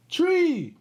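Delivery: tree said high and clear with the T R blend; modelled word. Shown as a demonstration. Speech host models the word for kids. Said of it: "learn that it starts with an T".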